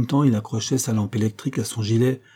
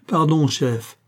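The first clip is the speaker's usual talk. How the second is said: panicked stammer; 5 semitones higher, much slower than usual. A narrator's reading. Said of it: "balbutia-t-il, affolé".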